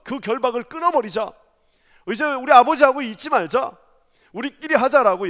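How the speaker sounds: loud, defiant rallying cry; rally the others to break free; rebellious crowd. Retold or imitated. People urging revolt against God, loud and defiant. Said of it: "인간들이 끊임없이 말합니다".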